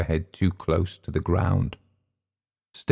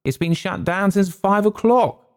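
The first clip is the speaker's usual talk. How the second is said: a touch of tipsy bluster; 12 semitones higher than usual. A narrator's reading. Continues the shout.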